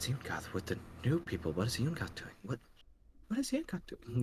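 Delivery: barely audible, hushed, gossiping murmur. Voicing villagers who watch the new people being led past: whispering villagers. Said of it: "kind of whispering, being like".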